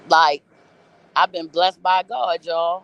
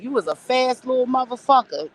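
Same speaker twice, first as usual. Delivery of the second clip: higher-pitched amused mock voice; imitating the junkie; 7 semitones higher than usual. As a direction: do the old junkie marvelling at her. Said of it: "And he was like".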